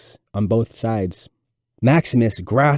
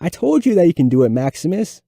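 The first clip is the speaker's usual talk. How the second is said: 1 excited; 7 semitones higher than usual. A narrator's reading.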